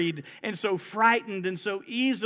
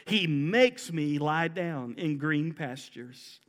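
slow, lower, unhurried verse; slow scripture reading; 3 semitones lower, slower than usual. Shown as a demonstration. Preacher reading verse two, slow and calm. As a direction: read it gently, letting it rest.

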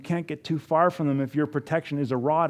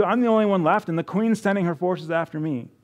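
Elijah crying out; 4 semitones higher, faster than usual. Retold or imitated. Preacher voicing Elijah's despair to the congregation, rising desperate cry. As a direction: cry it out like a hunted prophet at his limit.

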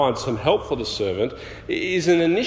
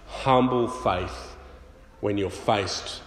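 slow and fading to much softer; fading, slow close; 4 semitones lower, 6 dB quieter than usual. Real, not acted. Preacher closes on humble faith, slowing and fading. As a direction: let the point die away reverently. Closing point of the sermon.

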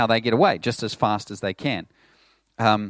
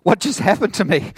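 higher, startled and confused; bewildered sheep; 7 semitones higher, 6 dB louder than usual. Pretend. Shorn sheep reacting to rough shearing, startled and higher. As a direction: sound stunned by what just happened. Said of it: "the New Zealand sheep are like".

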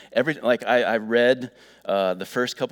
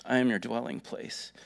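reading lyrics. Shown as a demonstration. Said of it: "it says this".

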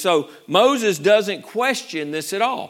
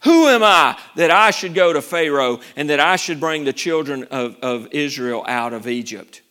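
insecure Moses; 4 semitones lower, 5 dB louder than usual. Retold or imitated. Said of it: "Now he says".

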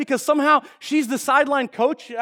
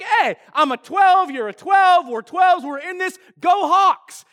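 higher-pitched mock fan cheer; rallying fan; 5 semitones higher, slower than usual. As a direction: imitate a proud fan rallying the crowd. Rallying fellow Seahawk fans.

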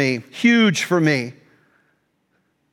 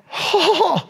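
acted-out huffing to cool off; heated exhale; 11 semitones higher than usual. Acts out his anger after confessing it.

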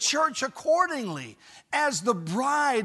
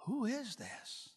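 hushed, drawn-out question of wonder; wondering disbelief; 15 dB quieter, slower than usual. Acted. The watching world asks about the church, in hushed wonder. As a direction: ask it softly and slowly, amazed. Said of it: "with credulity in their voice".

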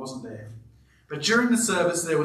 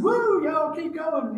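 mock shout; 11 semitones higher, slower than usual. Imitating excited worshippers.

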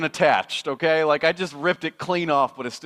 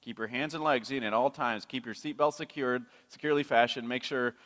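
ride operator; 7 semitones lower, 9 dB quieter than usual. Retold or imitated. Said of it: "the voice of the operator".

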